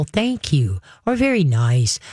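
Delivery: easy, understated thanks; calm praise. Shown as a demonstration. Trainer showing owners how to praise a dog, calm praise. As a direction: praise evenly, without hype. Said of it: "you're just gonna calmly go".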